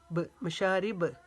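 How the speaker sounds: bouncing ब alone, then मशारिब ending the same; qalqala. Shown as a demonstration. Teacher isolating qalqala, ब popped and released in मशारिब. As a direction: release the final b of मशारिब with an echo. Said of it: "ये कलकला है".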